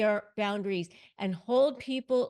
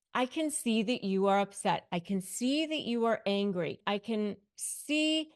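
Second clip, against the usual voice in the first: calm, even tone, voice never raised; calm and clear. Shown as a demonstration. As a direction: stay level and composed, like soothing a tantrum. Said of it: "Speak calmly, speak clearly".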